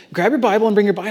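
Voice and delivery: rapid, dismissive repeat of an order; incredulous echo. Retold or imitated. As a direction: rattle the order back in disbelief. Echoing God's order back in disbelief.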